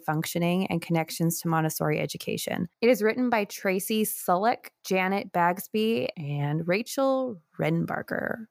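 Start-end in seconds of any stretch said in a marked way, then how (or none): 2.8-8.5 sportscaster. Acted. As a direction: announce the names like a sportscaster. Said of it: "said it like a sportscaster".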